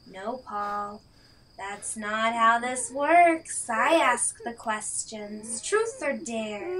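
cold villain. Acted. The killer lays down the rules to Paul, slow cold menace. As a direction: take your time, you hold all the power.

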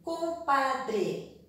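"Compadre" sounded out as com-pa-dre; syllable by syllable. Shown as a demonstration. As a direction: give "Compadre" separate, emphatic beats. Teacher sounds out word on board. ("Compadre" pronunciado com-pa-dre)

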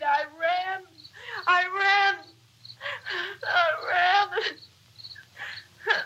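crying through the words; breaking down while telling it; sobbing. Real, not acted.

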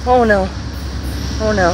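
anxious fast breathing; panicky, breath short with nerves; hyperventilating. Real, not acted. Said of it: "Feel like having an anxiety attack".

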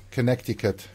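Connecticut with the middle c sounded as a k; "Connecticut" said as connect-i-cut; mother's pronunciation. Retold or imitated. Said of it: "my mother pronounces it".

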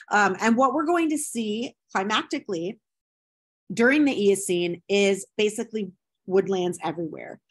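talking through hiccups; lecturing with the hiccups. Real, not acted. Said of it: "I don't know why I get the hiccups".

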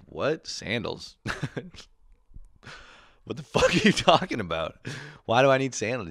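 can't believe anyone needs sandals; baffled kid. Retold or imitated. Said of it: "I was like".

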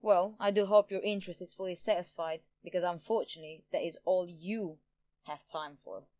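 mildly sneering villain; a touch of contempt, dropping away at the end. A narrator's reading. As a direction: dismiss them with mock politeness. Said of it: "Jian sneered at Romana and the doctor".

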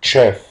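chef said slowly and clearly, as a teacher modelling the word; pronunciation model. Shown as a demonstration. Teacher showing pupils how to say chef, careful demo. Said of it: "وبتتنطق".

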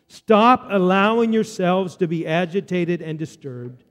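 slow, measured read-along; Scripture reading. Acted. Preacher has congregation read with him, slow measured Scripture reading. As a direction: lead a group reading at an even, slow pace.

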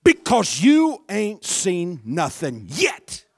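loud, fervent preacher's cry; David shouting his praise; shouted taunt. Retold or imitated. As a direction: throw it at the doubters, full volume. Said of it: "he goes on to say something like".

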